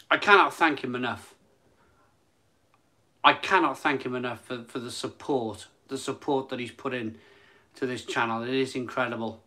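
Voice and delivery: quiet and low, close to tears; choked up. Real, not acted. Streamer thanking a generous viewer, quietly moved. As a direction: hold back real emotion while thanking. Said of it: "soppily emotional".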